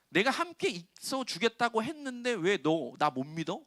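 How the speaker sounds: high, slow reproach from God; mild hurt, drawn-out reproach; hurt rebuke. Retold or imitated. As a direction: ask why you won't trust me, slowly. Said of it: "이래서 화가 난 거예요".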